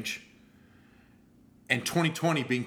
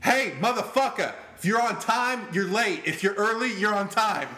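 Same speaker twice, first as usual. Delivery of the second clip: loud, higher Boston tough-guy voice; brash Boston guy; 7 semitones higher, 5 dB louder than usual. Retold or imitated. Imitating late Boston friend lecturing on punctuality, brash and loud. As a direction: imitate a Bostonian laying down the law. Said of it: "he was from Boston, and he was just like".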